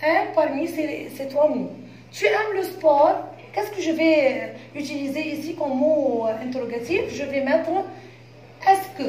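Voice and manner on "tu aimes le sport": "Tu aimes le sport?" said slowly, with the voice rising at "sport"; teacher reading the example slowly; slow question tune. Shown as a demonstration. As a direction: model the intonation question clearly. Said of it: "Il y a trois mots interrogatifs".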